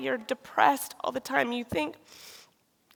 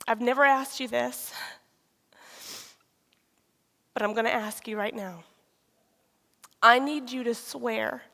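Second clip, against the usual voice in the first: grave demand. Retold or imitated. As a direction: retell a solemn confrontation, phrase by phrase. Retelling husband's grave demand to swear.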